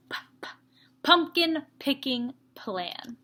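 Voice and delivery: pumpkin picking plan with every P popped; stressing the P sounds. Shown as a demonstration. Teacher popping P sounds for the kids. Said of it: "Lots of P's".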